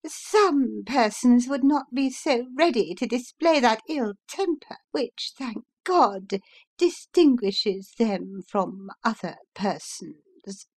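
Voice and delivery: high, half-whispered sneer; spiteful hiss. Acted. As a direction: whisper the barb with venom. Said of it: "returned Missus Briggs".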